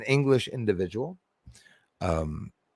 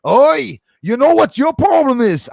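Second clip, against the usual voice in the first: loud, high Cockney telling-off; mock Cockney shout, pitched way up; Cockney accent; 13 semitones higher, 11 dB louder than usual. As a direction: bellow at trolls in mock Cockney. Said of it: "tell off the trolls with that accent".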